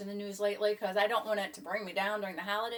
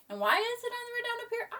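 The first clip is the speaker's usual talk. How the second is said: high, wondering question; puzzled. Real, not acted. Vlogger puzzling over the pier location, high and puzzled. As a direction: ask it with mock bafflement.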